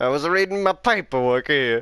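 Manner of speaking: hearty put-on Italian accent. Retelling a Bible story, the speaker voices Moses on his day off, with a hearty Italian accent. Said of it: "Since when is Moses a good hearty Italian?".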